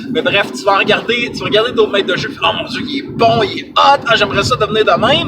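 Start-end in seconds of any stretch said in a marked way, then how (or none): 2.4-5.3 high, loud starstruck gushing; swooning fan. Acted. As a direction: swoon like a smitten fan, fast. Swooning over other game masters.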